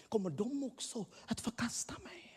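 hushed, fearful whisper. Acted. Voicing the blind man's fear, whispered. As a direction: breathe it like a secret dread.

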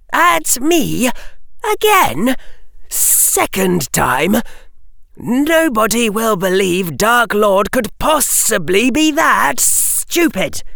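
high hissing disbelief; incredulous hiss. A narrator's reading. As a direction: hiss it, amazed at the stupidity. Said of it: "Harry hissed in incredulity".

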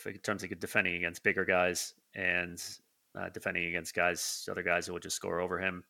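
talking with a runny nose; sniffly, stuffed-up voice; sniffling. Real, not acted. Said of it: "sorry about the sniffling".

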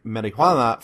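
"marijuana" as mari-HWA-na, Spanish style; Spanish accent. Shown as a demonstration. Host introduces the word from Mexico, Spanish accent. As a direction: give "marijuana" Spanish vowels and an h. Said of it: "insistence on saying it in the Spanish accent".

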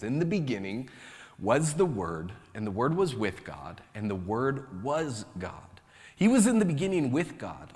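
measured, solemn reading of the Word; scripture reading. Acted. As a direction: read it out like a lesson at the lectern. Reads scripture aloud.

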